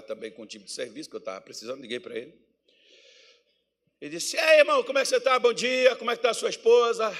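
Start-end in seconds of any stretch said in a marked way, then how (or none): 4.3-7.1 higher, louder, fast friendly hello; cheery phone greeting. Retold or imitated. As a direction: rattle off a bright greeting to the pastor.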